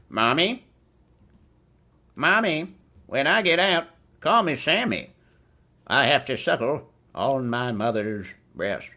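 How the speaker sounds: put-on high whiny man-child voice; babyish Sam Hurd. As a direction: whimper it up high like a grown baby. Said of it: "reading a Sam Hurd".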